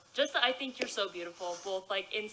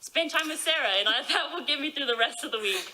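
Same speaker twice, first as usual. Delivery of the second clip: lightly excited. Retold or imitated. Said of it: "I was like".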